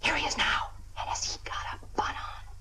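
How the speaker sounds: quick hushed whisper; whispered aside to her friend. Acted. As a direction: whisper it so he can't hear. Warning friend as he arrives.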